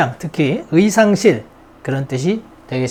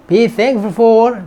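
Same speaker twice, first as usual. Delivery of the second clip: "Be thankful for" stretched out word by word, very slow; slow drill; 4 semitones higher, much slower than usual. Shown as a demonstration. Teacher slowing right down for a class repeating after her. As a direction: spell it out slowly so students can repeat it. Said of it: "repeat after me".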